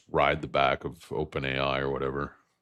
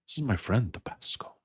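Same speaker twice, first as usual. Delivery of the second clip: put-on Salma Hayek accent; 6 semitones higher than usual. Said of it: "kind of a Salma Hayek accent".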